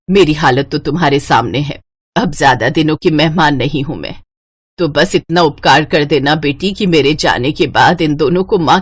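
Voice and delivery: a hint of a dying mother's plea; frail old mother-in-law pleading. Ailing mother-in-law pleads with daughter-in-law. (बूढ़ी सास की कमज़ोर, विनती भरी आवाज़)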